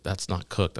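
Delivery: hushed, voiced aside; quiet aside to a coworker; imitated whisper. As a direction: retell a whisper in a softened voice. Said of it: "like, whispers".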